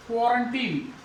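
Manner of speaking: क्वारंटीन opening on kwo, not kwaa; KWO-run-teen for क्वारंटीन; o sound. Shown as a demonstration. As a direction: round first vowel in क्वारंटीन. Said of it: "ओ की sound".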